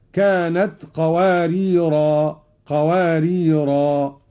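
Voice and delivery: slow "قواريرا" ending on a long a; drawn final alif on "قواريرا"; stop on alif. Shown as a demonstration. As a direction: pause form of "قواريرا". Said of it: "وقف بالألف هكذا".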